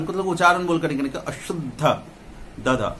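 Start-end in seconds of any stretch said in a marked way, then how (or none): 1.2-1.8 अशुद्ध with a heavy stress on the द्ध; emphatic doubled consonant. Shown as a demonstration. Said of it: "देखिए जोर देना है". 2.6-3.0 द, द as two separate low beats; stressed consonant demo. Shown as a demonstration. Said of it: "देखिए जोर देना है".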